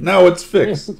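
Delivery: put-on loud, high Russian accent boast. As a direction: shout it like a proud comrade. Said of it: "That's as good as my Russian accent gets".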